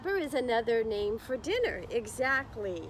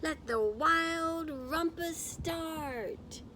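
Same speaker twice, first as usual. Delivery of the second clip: slow, higher, grand little king calling it out; Max's proclamation; 6 semitones higher, much slower than usual. Acted. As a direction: announce the party like a proud boy king. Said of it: "cried Max".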